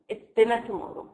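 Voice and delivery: "dinner" emphasized as the corrected word; stress on "dinner". Shown as a demonstration. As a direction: make "dinner" stand out over "tomorrow". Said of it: "The emphasized words".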